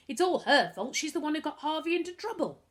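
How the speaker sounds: put-on boy yelling blame at his stepsister; angry shout. A narrator's reading. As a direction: throw the blame at her. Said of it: "Lloyd shouted".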